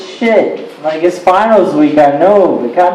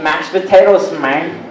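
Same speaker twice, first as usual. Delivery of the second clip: hammed-up Mexican-accented punchline; 2 semitones lower than usual. Comic describing a Mexican Thanksgiving dish, mock Mexican accent. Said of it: "I went to a Mexican Thanksgiving".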